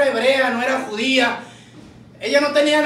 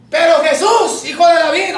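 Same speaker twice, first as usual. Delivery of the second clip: raised, protesting call; insistent plea; 3 semitones higher, 4 dB louder than usual. Acted. Woman stopping Jesus from leaving, insistent plea. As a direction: call him back with a plea.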